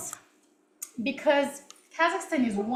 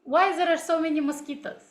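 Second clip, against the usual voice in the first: higher-pitched Russian-accented English; 5 semitones higher than usual. Shown as a demonstration. Teacher giving viewers the next test sentence, Russian accent. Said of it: "I was also speaking in this way".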